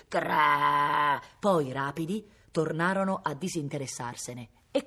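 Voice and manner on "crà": long, harsh "crà" of snapping dogs; imitated hound's attack growl; biting snarl. A narrator's reading. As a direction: snarl as if about to bite. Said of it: "aprendo bocche da morsi".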